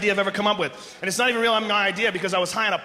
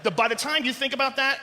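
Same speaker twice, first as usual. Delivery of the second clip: ordinary talk, nothing marked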